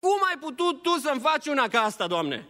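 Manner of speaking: high, fast, reproachful complaint; blaming God. Acted. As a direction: accuse God in quick protest. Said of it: "dăm vina pe El".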